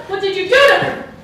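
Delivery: put-on child shouting at his bloodied father. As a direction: yell at the father for an answer. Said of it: "I get louder".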